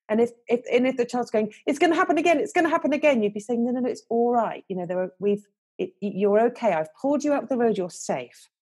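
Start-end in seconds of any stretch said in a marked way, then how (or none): 1.6-3.2 put-on scared child. Frightened child voiced in story. 3.6-8.5 kind soothing voice. Retold or imitated. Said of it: "that wise voice and that kind voice".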